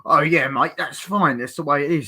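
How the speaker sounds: chummy, badly tried British accent. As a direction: put on a hammy British accent. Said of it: "Brad Pitt tries a British accent".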